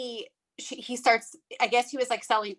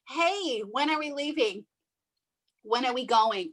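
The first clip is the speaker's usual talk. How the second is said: imitating the kids; 2 semitones higher than usual. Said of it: "I did that on purpose".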